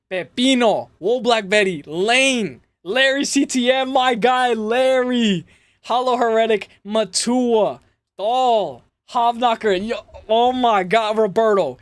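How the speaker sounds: excited. Real, not acted. Reading gifted member names excitedly.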